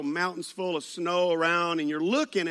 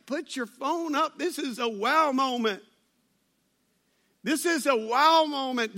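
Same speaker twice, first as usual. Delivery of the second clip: raised pitch, insistent but not shouted; imagined urging; 7 semitones higher than usual. Retold or imitated. To teenage girl missing the sight, insistent urging. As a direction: plead for attention to something amazing. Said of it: "I wanted to tell her".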